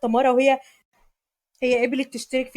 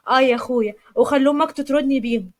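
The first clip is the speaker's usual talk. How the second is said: sarcastic; 3 dB louder than usual. Acted. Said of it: "تمارا بسخرية".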